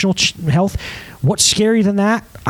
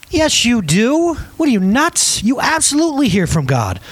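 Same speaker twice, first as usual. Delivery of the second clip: emphatic rebuttal; 6 semitones higher than usual. Real, not acted.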